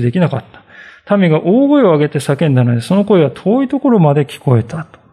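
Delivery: measured, formal Bible reading to the congregation; scripture reading. Acted. Pastor reads Ezra to the congregation, formal reading voice. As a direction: read the passage steadily, like from the pulpit.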